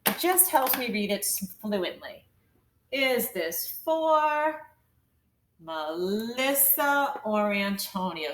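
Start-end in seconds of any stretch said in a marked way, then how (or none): 2.9-8.3 slow "Is this for", pause, slow "Melissa or Antonio" as one group; scooped phrasing. Shown as a demonstration. Teacher helping pupils read fluently, two slow scooped phrases. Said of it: "So let's scoop it".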